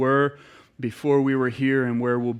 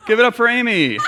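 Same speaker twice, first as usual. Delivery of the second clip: excited introduction; 9 semitones higher, 7 dB louder, faster than usual. Real, not acted. Introducing her assistant to audience.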